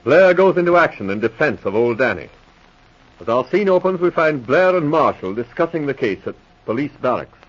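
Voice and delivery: measured announcer read of the cast and scene; radio announcer narration. A narrator's reading. Announcer to the audience, measured radio narration. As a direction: introduce the episode to listeners like an old radio announcer.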